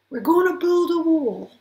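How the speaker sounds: mock political rally shout; rally-style shout. Shown as a demonstration. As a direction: belt it out to a cheering crowd. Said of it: "And suddenly everything lights up".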